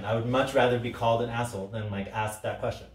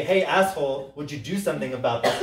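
mock rude; 3 semitones higher than usual. Shown as a demonstration. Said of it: "And I can say".

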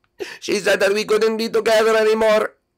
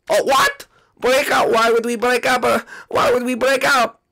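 shocked; 6 semitones higher than usual. Acted. Luigi shocked by breakup.

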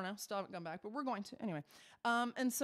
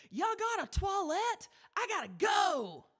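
loud American tourist; 9 semitones higher, 3 dB louder than usual. Retold or imitated. The tourist shouting to the chef for a toilet, loud and blunt. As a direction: yell it across the cafe like a clueless tourist. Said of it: "as loud as he could".

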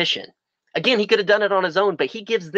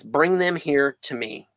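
slow read; slower than usual. Shown as a demonstration. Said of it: "Verse eighteen says".

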